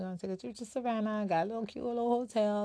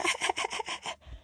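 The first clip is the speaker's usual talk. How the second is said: mocking laugh. Laughs after mocking fake friends' texts.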